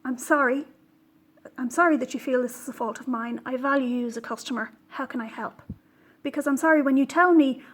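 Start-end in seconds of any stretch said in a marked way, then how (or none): 0.0-5.6 sincere apology. Pretend. What the dyer should have said to the customer, sincere and gentle. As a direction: show the dyer how a kind reply should sound. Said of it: "Why didn't she start out with".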